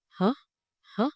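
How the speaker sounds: HẢ with a quick upward lift; questioning rise. Shown as a demonstration. Teacher likens rising tone to asking, HẢ lifted sharply. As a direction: ask HẢ sharply, pitch shooting up. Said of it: "like when you ask".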